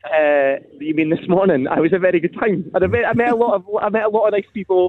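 broad Dundonian accent; thick local Dundee voice. Real, not acted. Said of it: "He doesn't speak that Dundonian when he's in here".

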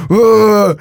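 high, drawn-out "oh" wail; retold outburst cry. Dreamer's reaction before attacking the villain. (återberättat högt, utdraget utrop)

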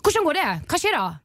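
high-pitched Bergen dialect; Bergen Norwegian. Shown as a demonstration. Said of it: "Men kom in på Bergen".

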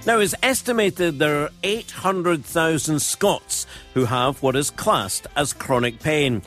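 projected, emphatic presenter headlines; scripted teaser with key words punched; radio menu read. Acted. Host telling listeners what is on the programme, radio menu read.

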